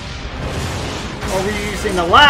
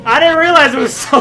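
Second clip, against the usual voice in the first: higher voice breaking into laughter; real amused disbelief; 5 semitones higher, 4 dB louder than usual. Real, not acted. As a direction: start cracking up as you speak. Cracking up at the trailer montage.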